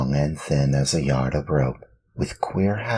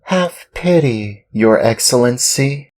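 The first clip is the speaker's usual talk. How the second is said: much higher, pleading Pinocchio; pleading puppet boy; 10 semitones higher, 6 dB louder than usual. Acted. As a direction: beg the master with rising pitch. Pinocchio begs.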